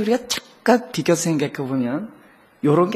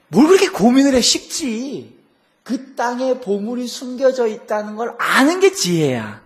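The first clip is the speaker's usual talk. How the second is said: teasing answer; 6 semitones higher, 4 dB louder than usual. Retold or imitated.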